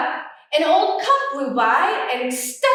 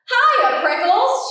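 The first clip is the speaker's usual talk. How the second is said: much higher, louder bouncy hello; shouted greeting; 7 semitones higher, 4 dB louder, slower than usual. Acted. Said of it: "she shouted".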